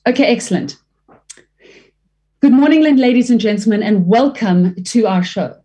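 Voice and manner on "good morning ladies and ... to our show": announcer greeting. Shown as a demonstration. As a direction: open the show like a host. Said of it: "a dramatic example".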